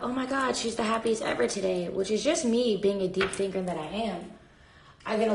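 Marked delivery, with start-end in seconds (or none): 0.0-1.9 mock excited. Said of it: "it doesn't sound like".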